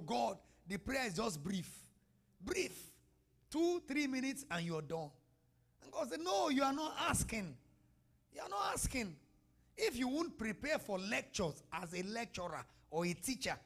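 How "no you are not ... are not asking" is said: emphatic divine voice. Acted. God's voice in sermon.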